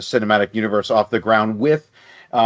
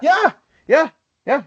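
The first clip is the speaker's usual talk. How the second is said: laughing agreement. Real, not acted.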